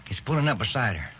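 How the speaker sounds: sudden rush as the suspect appears; excited alarm. Acted. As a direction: partner urging action, voice rising high and loud. Detective spots the killer's car.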